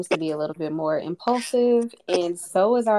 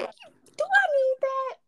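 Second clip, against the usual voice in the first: hesitant, tempted, drawn out; talking herself into buying it; high, slow self-questioning; slower than usual. Retold or imitated. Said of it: "I be like".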